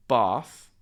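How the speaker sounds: bath with a long back A, /pɑθ/. Retold or imitated. Student expected to say bath with a long A. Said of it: "instead of saying".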